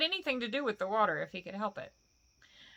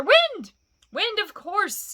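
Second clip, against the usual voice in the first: loud and higher, then slower; triumphant; 11 semitones higher, 10 dB louder, much slower than usual. Acted. Bilbo answers Gollum's riddle, triumphant shout. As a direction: pounce on the answer.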